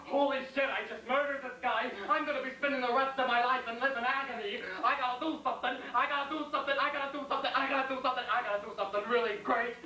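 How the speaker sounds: urgent, repetitive self-talk; panicked inner thoughts. Acted. Soldier who just killed a man, panicking. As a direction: spiral through the repeated resolve.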